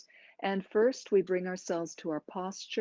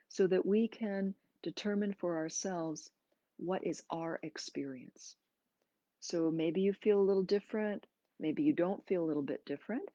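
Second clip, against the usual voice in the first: guided meditation. Acted. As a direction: lull the class gently through each breath. Yoga teacher guides breathing.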